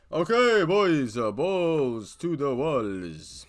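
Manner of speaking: loud hyped-up call; hype shout. Real, not acted. Going all in hype.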